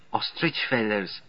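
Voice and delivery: put-on slow German-accented secretary. A narrator's reading. Secretary adding detail about her glasses, German accent. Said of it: "German accent, all right".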